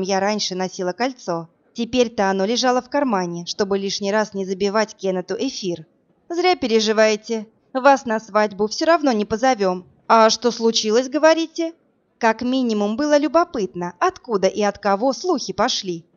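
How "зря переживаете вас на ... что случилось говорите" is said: calm, pointed comeback with a rising question; cool retort. Acted. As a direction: turn the taunt back on them. Heroine retorts to the bullies.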